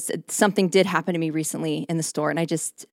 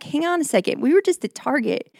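lightly voiced husband, pitched higher and wry; husband's retort; 5 semitones higher than usual. Wife imitating husband reminding her of Target, light mock voice. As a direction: imitate him calling her out, mildly. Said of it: "And he's like".

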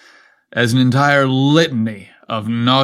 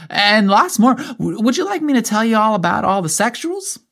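put-on much higher child's voice, eager and innocent; a know-it-all little girl lecturing her uncle; 6 semitones higher than usual. A narrator's reading. Emily explaining to her uncle.

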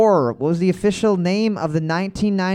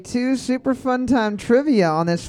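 drawn-out, rolling announcer welcome; game show host opening; 2 semitones higher than usual. Acted. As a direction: open the trivia night like an MC. Host opens the show to room.

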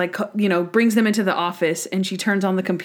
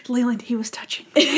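laughing imitation; 4 semitones higher, faster than usual. Imitating Linda's false accusation.

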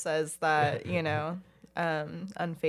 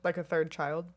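sarcastic shout. Real, not acted.

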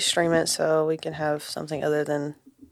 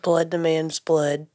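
rallying war cry; slower than usual. Pretend. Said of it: "what do you tell the troops".

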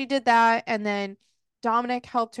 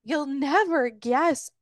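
slow, higher sarcastic sing-song; sarcastic tease; 4 semitones higher, slower than usual. Retold or imitated. Friend imitating the storyteller's build-up, slow sarcastic tease. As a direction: mimic her smug teasing. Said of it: "so sarcastic sounding".

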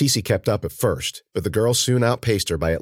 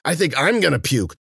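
higher, louder queasy wail; rising nausea; 9 semitones higher, 3 dB louder than usual. A narrator's reading. Girl sickened by the ditch's stench, queasy and rising in panic. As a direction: insist that you are about to be sick. Same complaint, escalating.

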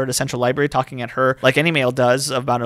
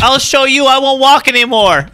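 high, loud, slow, through laughter; laughing mock defiance; 11 semitones higher, 8 dB louder than usual. Mocking the yearbook line, as laughing mock defiance. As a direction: declare it grandly while cracking up.

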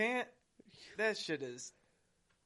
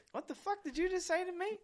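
mock outrage; 12 semitones higher, 6 dB quieter than usual. Retelling his outraged reply.

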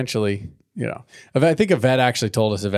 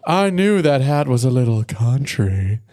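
hillbilly; 4 semitones higher, 5 dB louder, slower than usual. Acted. Hick voice continues.

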